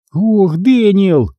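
медленно, протяжно, с усталостью; тяни имя устало; устало протянуто. Acted. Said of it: "устало протянула я". (устало тянет имя брату, медленно)

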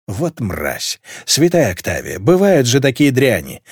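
ordinary delivery

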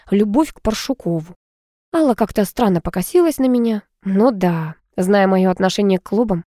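ordinary delivery, nothing marked

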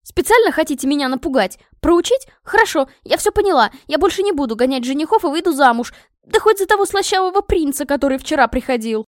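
high, loud, heated outburst; indignant rant. A narrator's reading. Princess rants at scheming parents.

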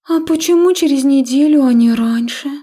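high, breathy starlet drawl; languid drawl. A narrator's reading. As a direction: draw the words out lazily and seductively. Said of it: "томно протянула младшая Шерш".

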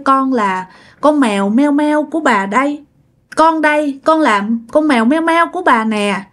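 lightly voiced pleading cat, a touch tearful; plaintive little cat, gently acted as weeping; mild mock crying. Dead cat calls to grandma in her dream, mildly tearful. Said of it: "mới khóc quá trời luôn".

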